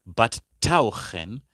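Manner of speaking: tauchen slowed, the t aspirated; stressed contrast. Shown as a demonstration. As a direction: lean on tauchen to set it apart. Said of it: "contrasting rauchen and tauchen".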